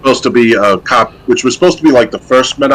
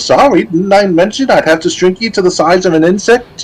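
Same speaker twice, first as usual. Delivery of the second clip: witch voice; 7 semitones higher than usual. Retold or imitated. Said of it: "the witch goes".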